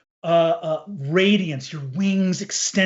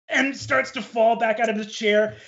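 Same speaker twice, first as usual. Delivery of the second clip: ordinary delivery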